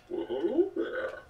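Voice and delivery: high, slow, drawn-out hello; character greeting. Acted. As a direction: greet them slowly and sweetly. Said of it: "talk like me and be like".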